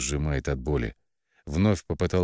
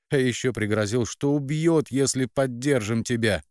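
higher, bitter accusing mother; mother blames her daughter for their debts, bitter and higher; resentful mother; 7 semitones higher than usual. A narrator's reading.

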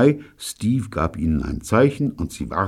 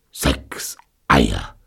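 gasping; 5 semitones lower than usual. Acted. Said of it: "keuchte Steve".

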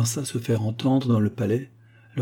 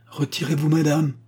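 queen's command; 5 semitones higher than usual. Acted. Queen orders Diane away.

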